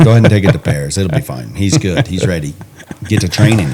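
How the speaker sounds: dry mock encouragement; sarcastic. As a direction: say it like you don't mean it.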